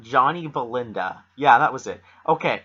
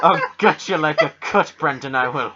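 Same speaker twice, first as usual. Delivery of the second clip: imitated Maritime Canadian threat; hammed-up Nova Scotian, louder at first; thick Nova Scotia accent; 4 dB louder than usual. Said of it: "that's what it sounds like".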